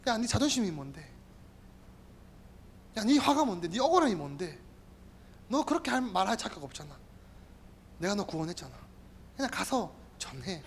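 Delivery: soft, low scolding voice of God; a hushed stern rebuke; God rebuking. Acted. (조용하고 낮게 꾸짖는 하나님)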